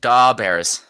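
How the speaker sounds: punchy mock Chicago accent; roughly faked Chicago accent. Shown as a demonstration. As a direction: do a token Chicago sports-fan accent. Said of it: "What's Chicago accent?".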